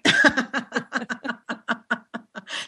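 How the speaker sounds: a soft high chuckle; gentle amused laugh after the joke. Real, not acted. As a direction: let a quiet laugh bubble out.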